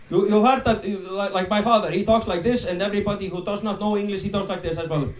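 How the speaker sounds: lightly put-on Icelandic accent. Shown as a demonstration. Comedian shows how Icelanders talk, Icelandic accent. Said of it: "this is not how Icelandic pe".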